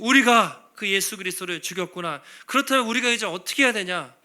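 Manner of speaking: great lament. Acted. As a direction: wail over the guilt of killing Jesus. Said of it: "엄청난 탄식".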